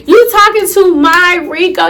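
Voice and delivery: acted disbelief, demanding an answer; incredulous confrontation. Confronting cousin for talking to her ex, incredulous. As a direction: confront her as if you can't believe it.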